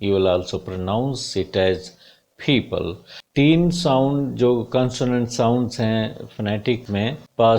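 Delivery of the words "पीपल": पीपल with aspirated p; teacher models पीपल; model pronunciation. Shown as a demonstration. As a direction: say पीपल with a breath after p. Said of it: "जैसे मैं बोलता हूँ people".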